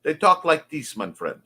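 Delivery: colloquial "dey" for "they", "dis" for "this". Shown as a demonstration. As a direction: voice a character who says "dis" for "this". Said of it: "I'm going to write D E Y".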